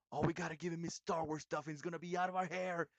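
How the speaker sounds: imitating parents. Voicing his parents at gift time.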